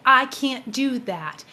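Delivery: hesitant refusal. Retold or imitated. Refusing to talk to her father directly, slow and hesitant. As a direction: balk at the idea, slowly. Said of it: "as I said the words".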